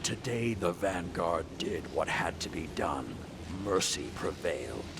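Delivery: a curt, dry stab at a formal address; a clipped mock address to the troops; mock speech. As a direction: give the shortest speech you can, half-mocking. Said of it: "You want a speech?".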